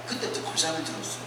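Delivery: normal talking voice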